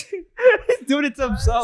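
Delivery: talking through a mouthful; words round a bite of food; mouth full. Real, not acted. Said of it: "talk with your mouth full like that".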